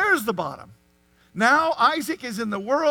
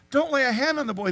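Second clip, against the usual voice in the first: angel's command; 3 semitones higher, 4 dB louder than usual. Acted. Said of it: "the angel said".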